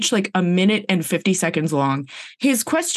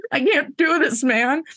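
high, overwhelmed whine; hammed-up giving up; mock despair; 7 semitones higher than usual. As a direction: plead that it is all too much, pitched way up. Acted overwhelmed landlord giving up.

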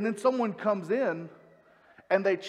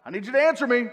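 demanding; 4 dB louder than usual. Retold or imitated. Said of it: "out of discontent".

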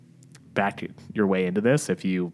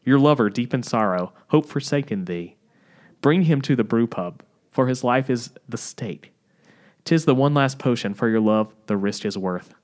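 stagey Southern barkeep pitching a potion; attempted Southern accent. Bartender urging Margaret to save her lover, attempted Southern accent. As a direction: declaim it with a put-on Southern accent. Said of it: "it's supposed to be Southern".

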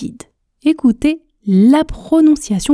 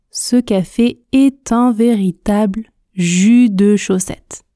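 tortoise speed. Shown as a demonstration. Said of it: "la vitesse tortue, lentement, en articulant bien". (vitesse tortue, en articulant bien)

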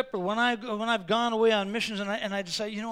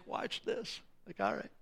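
sly whispered aside; 12 dB quieter than usual. Retold or imitated. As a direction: whisper it so the pastor can't hear. Boy whispers plan in church.

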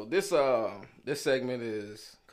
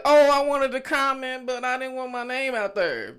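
higher and louder imitation of a nervous fan; lightly voiced shy listener; 12 semitones higher, 7 dB louder than usual. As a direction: play the hesitant listener, a bit high. Voicing a shy listener's thought.

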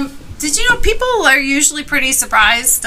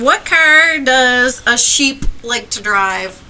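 slow joke setup; 2 semitones higher, 4 dB louder, slower than usual. Shown as a demonstration. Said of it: "This is a, such a dad joke".

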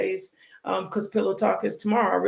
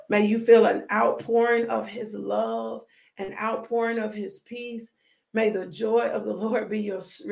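pronouncing a blessing. Acted. Preacher blessing her online congregation, benediction voice. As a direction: bless them line by line, winding down. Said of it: "let me bless you out my mouth".

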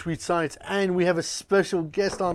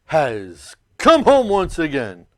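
grand announcer; 3 dB louder, slower than usual. Acted. Host's grand opening to show.

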